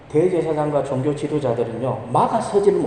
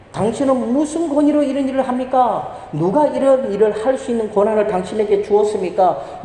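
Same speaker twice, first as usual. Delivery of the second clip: higher-pitched mock accusing challenge; challenging Jesus; 5 semitones higher than usual. Priests confront Jesus in the temple, mock accusing. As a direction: demand it like a suspicious priest. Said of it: "예수님께 따지고 들고 있습니다".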